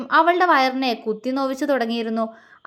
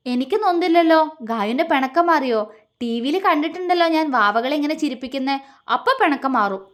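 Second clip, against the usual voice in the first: eager; 2 semitones higher than usual. Acted. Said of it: "അവൻ ആവേശത്തോടെ പറഞ്ഞു".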